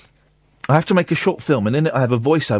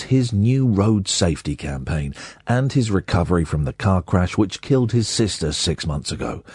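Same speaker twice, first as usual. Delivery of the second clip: slow, lower, holding back tears; sad, slow read; 4 semitones lower than usual. Shown as a demonstration. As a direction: read it as if about to cry. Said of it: "really slow and like he's about to break down in tears".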